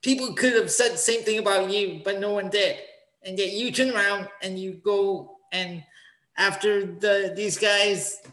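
wrestling promo. Pretend. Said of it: "I want you to cut a promo right now".

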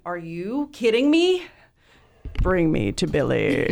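hammed-up starstruck demand; thrilled disbelief. Fan answers friend's concert invitation, hammed-up thrilled disbelief.

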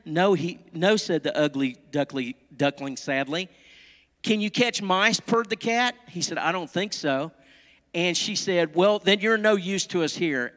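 lively, melodic storytelling with careful phrasing; animated picture-book narration; storybook read-aloud. A narrator's reading. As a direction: read it to little children.

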